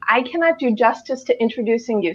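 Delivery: ordinary delivery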